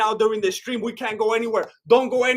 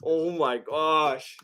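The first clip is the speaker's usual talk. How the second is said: awed; 2 semitones lower than usual. Real, not acted. Awe at tattoo news.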